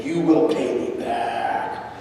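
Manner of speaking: slow, lightly menacing Sith Lord voice; a hint of dark-side villain, drawn out slowly; Sith Lord impression. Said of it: "That's my Sith Lord impression".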